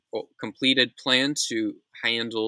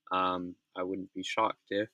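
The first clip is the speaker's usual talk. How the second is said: yawning; 3 semitones lower, 4 dB quieter than usual. Real, not acted. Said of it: "sorry for yawning".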